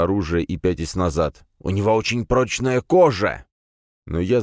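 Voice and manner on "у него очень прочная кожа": shouting. Acted. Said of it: "крикнул побледневший старик".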